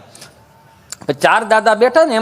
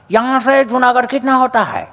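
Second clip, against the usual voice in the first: foreign tourist Hindi; 2 semitones higher than usual. Retold or imitated. European tourist asks the old man.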